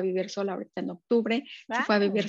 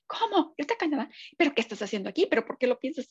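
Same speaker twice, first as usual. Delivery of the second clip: leaps higher on the first word, mock disbelief; incredulous people; 4 semitones higher than usual. People questioning her move to Canada, mock incredulous. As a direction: play everyone doubting her plan. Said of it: "todo el mundo te dice".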